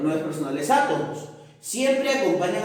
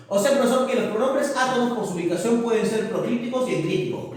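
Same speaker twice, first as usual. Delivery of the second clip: fast, higher pupil voice; student summing up; 3 semitones higher, much faster than usual. Acted. Pupil checking their summary with the profesor, fast. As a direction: rush through it as a pupil checking.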